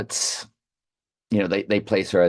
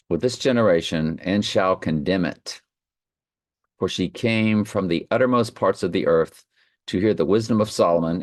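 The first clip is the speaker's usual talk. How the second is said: measured Bible reading voice; scripture reading. Acted. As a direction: read the verses with solemn weight. Reads scripture aloud.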